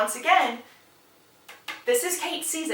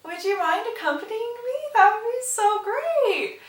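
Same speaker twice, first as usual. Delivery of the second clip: annoyed; 11 semitones higher than usual. Retold or imitated. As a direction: stretch the polite request with mock sweetness, clearly annoyed. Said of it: "annoyed as can be".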